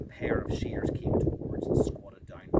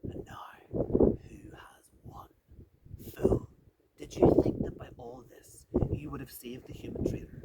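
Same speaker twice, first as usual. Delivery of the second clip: quivering voice. Acted. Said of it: "said in a quivering voice".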